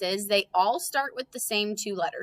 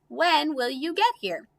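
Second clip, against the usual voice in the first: slow reading; 7 semitones higher than usual. Shown as a demonstration. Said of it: "last sentence".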